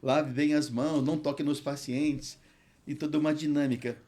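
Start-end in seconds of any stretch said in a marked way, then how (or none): 0.0-2.4 calling out. Retold or imitated. Pastor addressing people in the hospital.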